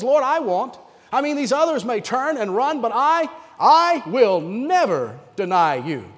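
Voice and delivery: earnest, insistent vow, slowing at the end; protesting. Acted. Peter protesting to Jesus that he will stay, insistent. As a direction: protest loyalty, dragging out the last words. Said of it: "Peter protests".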